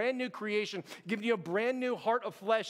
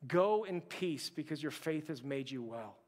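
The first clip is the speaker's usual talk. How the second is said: tender; 6 semitones lower, 5 dB quieter than usual. Acted. Jesus speaks tenderly to shamed woman.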